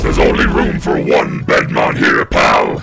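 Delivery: tough-guy challenge. Acted. Cameo picking a fight.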